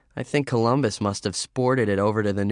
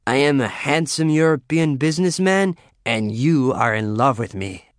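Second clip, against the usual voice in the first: grand pretend; 4 semitones higher, 4 dB louder than usual. Mock grand pretend role.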